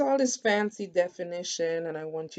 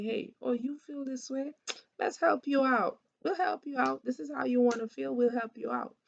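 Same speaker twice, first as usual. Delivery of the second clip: a higher, lightly voiced reassuring helper; voicing the body; 6 semitones higher than usual. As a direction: play the kind body soothing the mind. The body comforting the mind.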